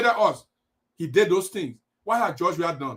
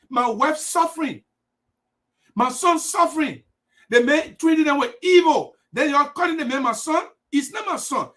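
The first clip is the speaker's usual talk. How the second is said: raised, pleading voice of the dead president; a grieving father's protest, pitched up; voicing Samuel Doe; 5 semitones higher than usual. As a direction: speak as the wronged dead man, higher and insistent. Voicing Samuel Doe's complaint.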